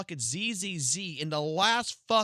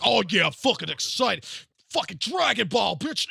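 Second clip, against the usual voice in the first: loud, higher mock hype ending in a shout; 5 semitones higher, 5 dB louder than usual. Streamer mocking hyped fans, loud mock excitement. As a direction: ham up fake fan excitement, yelling. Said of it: "I can fucking be like".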